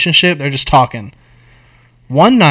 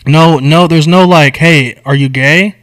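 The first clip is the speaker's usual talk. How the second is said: louder, insistent no; emphatic; 6 dB louder, slower than usual. Real, not acted. Storyteller insists to his friend there was no lead-up, louder. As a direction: shut down the idea firmly.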